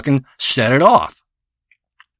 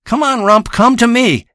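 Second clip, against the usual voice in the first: calling the cat; 8 semitones higher, slower than usual. Pretend. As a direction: holler for the cat to come. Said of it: "if I call out Rump".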